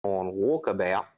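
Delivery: amateur mock-Australian, slowed down; Australian accent. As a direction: draw out the Australian vowels. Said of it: "That's all I can do".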